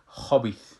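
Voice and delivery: خبیث said with a heavy full kha; heavy kha example. Shown as a demonstration. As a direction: start خبیث with a thick kha.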